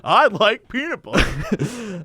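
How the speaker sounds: very slow, vacant; mock confused broadcaster; dazed Aikman. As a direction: say it like a punch-drunk man.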